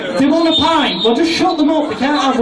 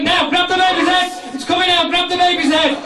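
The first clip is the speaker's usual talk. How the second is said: higher, urgent coaching; urgent shouting; 5 semitones higher than usual. Acted. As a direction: push them through the birth.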